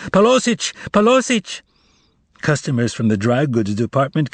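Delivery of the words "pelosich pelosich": high, desperate shout for help; miserable shout. A narrator's reading. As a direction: cry out miserably to the whole store. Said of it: "the salesgirl shouted out miserably".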